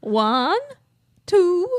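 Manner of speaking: counting in a Transylvanian count voice; the vampire count's laugh, then count; Transylvanian accent. Pretend. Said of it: "your vampire accent's amazing".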